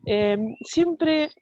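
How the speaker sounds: muffled by a face mask; through a face mask. Real, not acted. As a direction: speak through a cloth mask. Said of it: "estoy hablando con el barbijo y se escucha raro".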